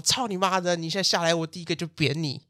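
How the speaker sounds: woman in leather jacket cussing out the old couple, mock rage; retold cursing rant. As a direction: imitate a woman swearing at the old pair. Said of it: "直接连续带着脏字喷啊".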